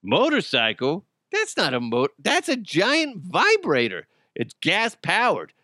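hammed-up innocent denial; mock indignant excuse. Suspect explaining away a motorcycle to police, mock indignant.

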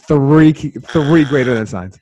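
slow, hushed whispered repeat; mock whisper. Host repeating his food take in a slow whisper. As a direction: whisper it slowly for effect.

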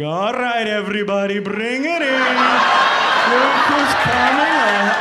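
put-on rally the outfield like a kids' baseball team, building; Little League chatter. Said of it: "doing that Little League thing".

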